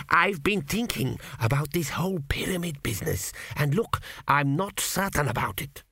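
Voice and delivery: breathy whispered confession; ghostly whisper. A narrator's reading. Dead king whispers doubts to his son. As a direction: lean in and whisper it.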